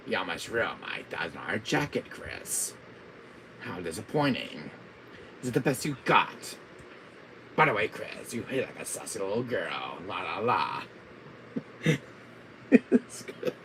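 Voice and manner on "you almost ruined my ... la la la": lightly voiced scornful villain; mild villain mockery; Wesker. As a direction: taunt as a disappointed villain. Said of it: "my Wesker voice".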